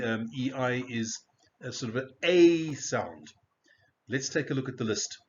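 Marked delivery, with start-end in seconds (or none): 2.2-3.3 A stretched as a long ay; long A sound. Shown as a demonstration. Teacher names the exception vowel, A drawn out as ay. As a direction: hold the A of A SOUND as ay. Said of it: "the pronunciation of the".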